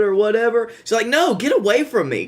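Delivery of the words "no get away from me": mock hostile. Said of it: "strangely hostile to everyone".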